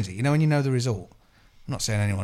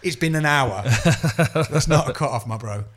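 laughing retort; slower than usual. Retold or imitated. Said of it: "It's like".

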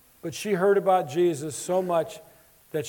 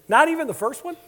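high-pitched, would-be empathetic question; retold empathetic question; 7 semitones higher, faster than usual. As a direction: ask it high, imitating concern for a struggling student. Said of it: "And I said very empathically".

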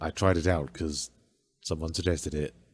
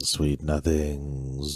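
sweet nothings; 4 semitones lower, much slower than usual. Pretend. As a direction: purr it slowly like a lover. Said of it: "whisper sweet nothings into my ear".

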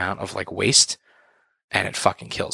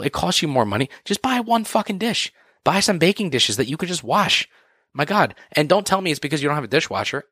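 higher, exasperated ranting; annoyed rant; 4 semitones higher than usual. Real, not acted. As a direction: vent your frustration, pitched up. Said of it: "Sorry to get a little annoyed. I don't mean to yell".

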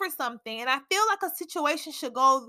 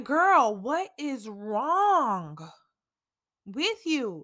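slow self-reproach; much slower than usual. Retold or imitated. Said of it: "I have been talking to myself".

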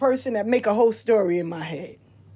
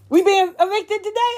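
father's voice; 9 semitones higher, 4 dB louder than usual. Retold or imitated. Dementia father asks daughter worriedly.

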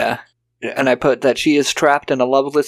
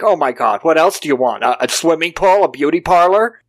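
incredulous questions, climbing higher with each one; mock exasperation; 4 semitones higher than usual. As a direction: imitate a scoffing official, rising in pitch. State official scoffing at funding request.

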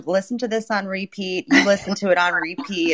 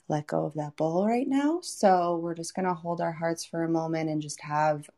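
guided meditation. Acted. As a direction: gently invite them to settle. Leads a silent heart meditation.

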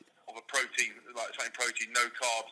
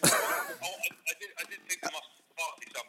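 louder, slow, drawn-out realisation; exclaiming; 6 semitones higher, 9 dB louder, much slower than usual. Real, not acted. Realising his mate was winding him up, loud and drawn out. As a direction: stretch it out as the penny drops.

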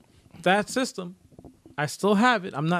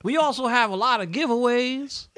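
higher, louder goofy promo voice; 3 semitones higher, 5 dB louder than usual. Pretend. Host hypes the giveaway to viewers in a goofy voice. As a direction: sell the giveaway like a cartoon ad.

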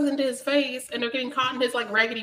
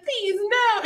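mock pleading; 8 semitones higher than usual. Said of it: "she's like".

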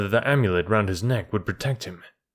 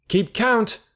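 high, contemptuous call; jeering, high-pitched command; scornful shout; 12 semitones higher than usual. A narrator's reading. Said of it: "shouted Mowgli scornfully".

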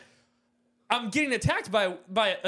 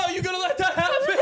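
high, loud, fast mock taunt; laughing shout imitating a goading parent; dad egging on; 12 semitones higher, 5 dB louder, faster than usual. Dad watching son get kicked, loud goading shout. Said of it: "my dad's standing there like".

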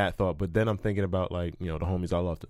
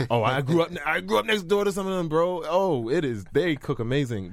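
high-pitched imitation of a Chinese Jamaican accent; 7 semitones higher than usual. Comic imagining someone reacting to Chinese Jamaican talk, put-on accent. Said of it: "watching, like, a Chinese Jamaican talk".

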